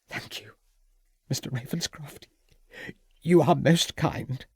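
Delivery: a shaken hostess, voice lifted with worry; distressed hostess. A narrator's reading. Hostess thanks the detective.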